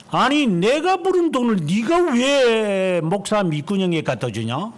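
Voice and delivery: high, loud retold scolding; father yelling at mother over church money; angry father. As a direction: bark it like an irate father. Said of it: "이랬어요".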